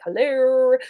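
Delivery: hammed-up disapproving parent; irritated mom. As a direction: push back on a rude kid in mock outrage. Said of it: "It creates a frustration and irritation".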